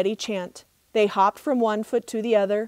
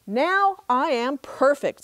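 boastful; 4 semitones higher than usual. Acted. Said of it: "said Coyote".

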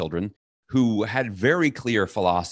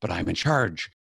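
commander; 4 semitones higher, 5 dB louder than usual. Retold or imitated. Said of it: "you are in this".

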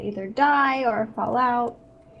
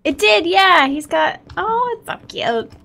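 squealing high with delight; thrilled, bursting with joy; excited; 7 semitones higher, 8 dB louder than usual. Real, not acted. Pet does something cute.

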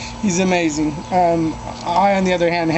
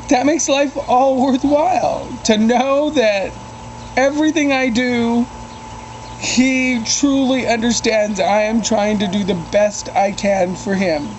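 emotional; 4 semitones higher than usual. Real, not acted. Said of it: "sorry if I'm getting a little emotional".

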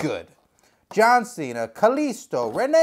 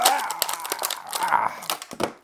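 long voiceless gasp for air; long breathy gasp; 4 semitones lower, 4 dB quieter than usual. Pretend. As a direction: gasp as if just freed from a box. Figure gasping after release.

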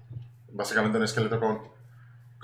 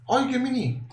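squeaky cute voice for a tiny monster; cutesy coo; 10 semitones higher, slower than usual. Real, not acted. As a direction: coo over something tiny. Cooing at a tiny creature.

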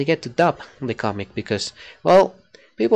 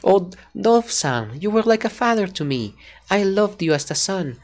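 character voice line; 4 semitones higher than usual. Shown as a demonstration. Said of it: "I still have the voice".

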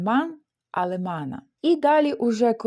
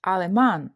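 Алеман stressed on its final syllable, -ман; stress on last syllable; 3 semitones lower than usual. Shown as a demonstration. Teacher models a nationality word, final-syllable stress on Алеман. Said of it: "Така ж сама ситуація з графічним наголосом".

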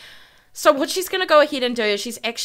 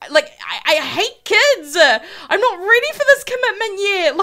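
higher, hammed-up whine with laughter creeping in; whiny mock protest; 8 semitones higher than usual. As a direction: play a reluctant dad whining, half laughing. Voices father panicking at pregnancy.

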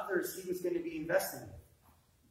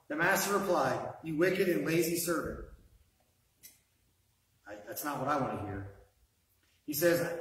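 scripture reading. Acted. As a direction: read it like a stern verdict. Reads scripture aloud to congregation.

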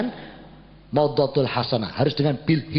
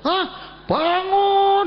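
startled question jumping much higher and louder; shocked hah; 3 dB louder, much slower than usual. Retold or imitated. Preacher hearing the maid blame him, shocked high outburst. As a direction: react as if you can't believe it.

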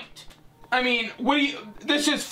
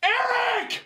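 horrified outrage; 11 semitones higher than usual. Acted. Telling Eric about tomorrow's job interview, horrified yell. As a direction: scream it high, stretching the last word.

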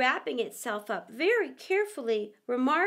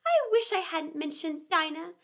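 melancholy; 4 semitones higher than usual. Acted. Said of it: "in a melancholy tone".

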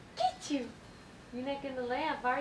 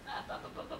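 whispering; 9 dB quieter, much faster than usual. Real, not acted. Coaxing baby.

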